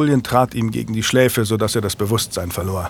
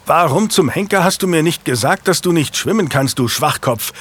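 higher, louder angry scolding; 5 semitones higher, 3 dB louder than usual. Acted. Knight scolding squire who hid he cannot swim, angry. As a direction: scold the foolish squire sharply. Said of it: "schimpfte er".

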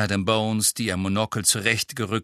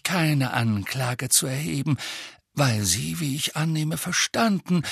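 calm; 6 semitones higher than usual. A narrator's reading. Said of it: "sagte Dumbledore ruhig".

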